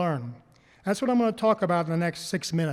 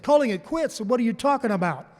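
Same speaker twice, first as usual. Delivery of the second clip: shocked question; 4 semitones higher, faster than usual. Retold or imitated. Friends hear he is quitting.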